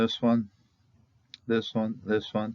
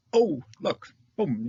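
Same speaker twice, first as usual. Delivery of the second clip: high excited 'look, boom'; excited exclamation; 7 semitones higher, slower than usual. Retold or imitated. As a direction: exclaim it like spotting something. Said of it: "it's kinda like".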